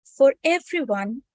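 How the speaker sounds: measured read-aloud, pausing between phrases; article read-aloud. Acted. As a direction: read it out phrase by phrase for listeners with eyes closed. Reads article aloud to meditating listeners.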